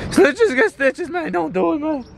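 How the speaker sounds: high, jokey tough-guy warning; mock threat to a snitch.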